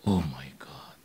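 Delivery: soft, low, whispered disbelief; awed whisper. Retold or imitated. Preacher stunned that the card payment worked, awed whisper. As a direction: let it out under your breath, stunned.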